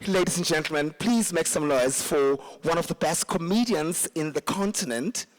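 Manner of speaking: mock posh MC voice, measured and grand; lightly hammed-up posh emcee; posh announcer. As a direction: introduce the act with exaggerated poshness. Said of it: "I'm going to speak very posh".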